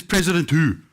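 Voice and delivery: a hint of a stern president; mildly stern, clipped question; strict voice. A hint of stern Mandela quizzing the caller. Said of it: "he had that strict voice on".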